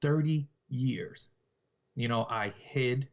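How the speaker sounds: slow, deliberate retold confession; creepy. Killer confessing to the woman he spared, mildly creepy. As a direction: draw it out creepily, word by word. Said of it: "this is so creepy".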